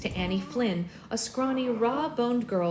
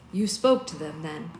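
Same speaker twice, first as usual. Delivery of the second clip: corrected reread; 6 semitones lower than usual. Shown as a demonstration. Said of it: "Wrong. Cleo asked that".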